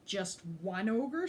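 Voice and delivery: slow, mocking scoff. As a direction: Tough dismisses the ogre, slow scoffing question. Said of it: "scoffed Tough".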